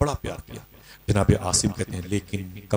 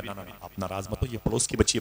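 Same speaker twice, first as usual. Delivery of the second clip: soft pleading; 7 dB quieter than usual. Retold or imitated. Wife soothes angry husband.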